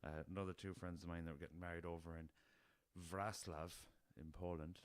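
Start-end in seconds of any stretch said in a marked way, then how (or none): 3.1-3.7 Wrocław said as "VRAS-lav"; correct Polish pronunciation. Shown as a demonstration. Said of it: "that's how you, how you say".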